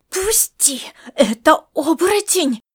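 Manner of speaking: hissed whisper, urgent. Acted. Grandma hisses at her grandson. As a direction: hiss the words through the teeth. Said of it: "прошипела Маришка".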